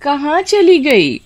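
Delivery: high, drawn-out searching call. A narrator's reading. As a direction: call through the house for your daughter. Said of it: "उसे बहुत पुकारती है".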